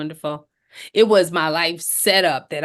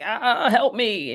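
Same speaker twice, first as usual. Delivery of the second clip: lightly hammed-up comic wail, a little higher; Lucy Ricardo wail; 5 semitones higher, slower than usual. Panicked new mother grabbing the hospital counter, hammed-up wail. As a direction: drag out a mock plea for help. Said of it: "ran in there like Lucy Ricardo".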